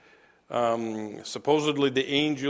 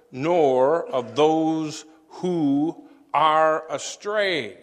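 slow, weighty reading of a prayer; measured, emphatic recitation; solemn quotation reading; slower than usual. Acted. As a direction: read it out slowly, leaning on each phrase. Reads a quoted prayer aloud.

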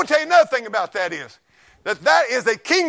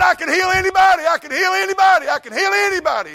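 louder, much higher, bellowing revival preacher; mock the healer's grandstanding boast; hammed-up tent preacher; 12 semitones higher, 5 dB louder than usual.

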